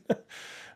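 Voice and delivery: brief, breathy real laugh; short laugh. Real, not acted. Storyteller amused at his own failures, short laugh. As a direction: let out a small laugh.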